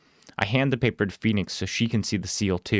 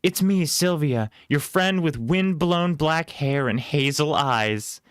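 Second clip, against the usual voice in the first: put-on bright young girl; 8 semitones higher, slower than usual. Knocking at friend's door.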